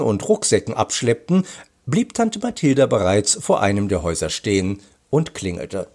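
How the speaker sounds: lively storybook reading with swooping stresses; story narration. A narrator's reading. Author reads a detective story to children, animated narration. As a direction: read it out expressively for young listeners.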